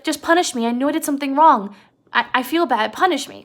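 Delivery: Lenny pleading. Retold or imitated. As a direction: imitate guilty begging, pushed up in pitch. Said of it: "Lenny was like".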